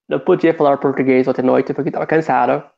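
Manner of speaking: Portuguese in a heavy American accent, imitating his friend; mock American accent. Mimicking how his friend sounds, American accent in Portuguese. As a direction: flatten the Portuguese vowels like a gringo. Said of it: "It sounds like that".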